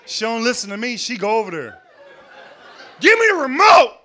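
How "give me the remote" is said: mock shrill demand, higher and louder; snatch it with your voice. Comic imitating the neighbor woman demanding the remote loudly.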